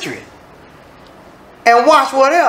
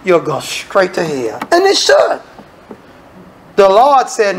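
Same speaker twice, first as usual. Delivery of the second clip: normal talking voice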